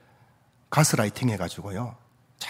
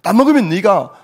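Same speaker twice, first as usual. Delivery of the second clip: insistent devil pressing Eve, building to loud, high pushes; acted persistent urging; 5 semitones higher, 7 dB louder than usual. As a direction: keep pushing the temptation, louder and higher as it goes. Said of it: "마귀가 집요하게 하와에게 찾아와가지고". (집요하게 부추기며 점점 크고 높아지는 말투)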